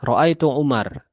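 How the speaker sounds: Ro'aitu Umar read slowly and clearly; slow Arabic reading. Shown as a demonstration. Teacher reading Ro'aitu Umar slowly to students. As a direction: draw out Ro'aitu Umar for the class. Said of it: "Kalau Umar gimana?".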